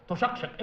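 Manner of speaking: تشقشق with the qaf pronounced hard and clearly; stressed qaf. Shown as a demonstration. Teacher corrects the girl's k to a hard qaf. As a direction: spell out the q in تشقشق. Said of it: "القاف، قلت لك عليها خمسين مرة".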